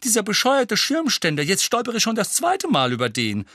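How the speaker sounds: high, whining exasperation; wailing complaint. A narrator's reading. Tonks cursing the umbrella stand she tripped over, wailing. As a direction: moan loudly about your clumsiness. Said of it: "jammerte sie".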